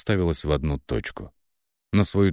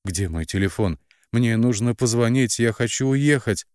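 rising to a desperate, higher, louder demand; desperate plea; 6 semitones higher, 4 dB louder than usual. A narrator's reading. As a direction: heroine begs her sister for the phone, desperately. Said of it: "с отчаянием, выдыхая".

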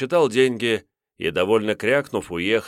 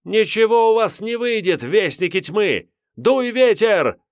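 defiant witch voice; 14 semitones higher, 6 dB louder than usual. Acted. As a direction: laugh off the torturers. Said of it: "Сауля расхохоталась ещё громче".

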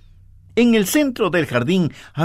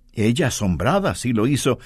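ordinary talk, nothing marked

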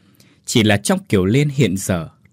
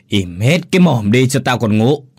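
put-on louder slurred drunken grumble; 5 dB louder than usual. A narrator's reading. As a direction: growl it out half asleep and drunk. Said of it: "giọng lè nhè do say rượu".

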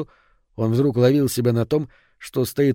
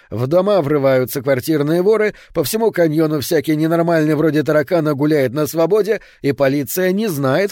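a touch of heated complaint; mild indignant tirade; indignant rant; 4 semitones higher, 4 dB louder than usual. Acted. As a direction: rattle off grievances, mildly worked up. Husband rants about crimes.

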